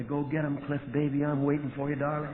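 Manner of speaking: lightly voiced sweet-talking bottle; a hint of a bottle coaxing its lover. Liquor bottle in the glove compartment calling him, lightly coaxing. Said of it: "would just sit there in that glove compartment and talk to me all day".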